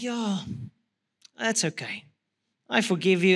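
low, soft, gently halting reply; subdued retold reassurance; quiet forgiveness. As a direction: accept the apology quietly, with pauses. Retells forgiving his son.

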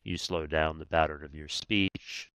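low, unhurried DJ murmur; calming voice to cool a conflict; late night DJ voice. Shown as a demonstration. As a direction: drop it down like a late night radio host. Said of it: "Oh, you did that well".

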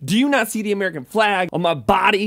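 put-on southern accent, lively and boastful. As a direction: talk in a playful southern accent. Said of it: "talking with a southern accent".

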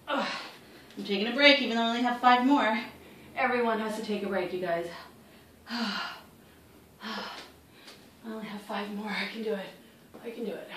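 worn out from the workout; tired and out of breath. Real, not acted. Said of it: "I'm tired".

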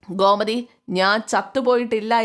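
husband loudly reminding everyone he's still alive; angry shout. Acted. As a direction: bark it as a final warning. Husband asserting authority angrily.

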